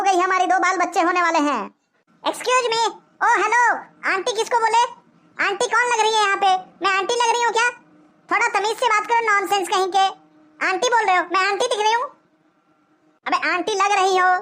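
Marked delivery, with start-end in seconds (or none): 2.2-12.0 higher-pitched, affronted lady's voice; indignant woman. Acted. Woman objecting to being called aunty, indignant. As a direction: play an offended woman, pitched up.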